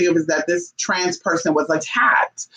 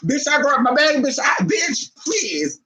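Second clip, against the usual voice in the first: excited shout; 8 semitones higher, slower than usual. Retold or imitated. Bolting off the bus, relieved.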